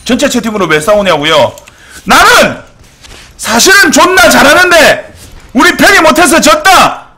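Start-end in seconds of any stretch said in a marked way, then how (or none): 2.0-7.1 loud, high mock outburst, imitating a teammate; boastful protest. Streamer mimicking his teammate in all-chat, loud boastful protest. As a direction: proclaim it indignantly, high and loud. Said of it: "라고 어필을 존나 하고 싶어서 그래요".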